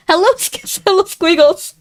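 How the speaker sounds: high, sing-song hello to a pet; pet greeting. Real, not acted. Greeting her pet squiggles mid-game, high and cooing. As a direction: coo at the pet with a laugh.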